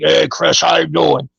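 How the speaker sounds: a hint of a deep-voiced greeting; Brian's deep voice. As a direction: lightly imitate a friend's deep voice. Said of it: "wicked deep voice".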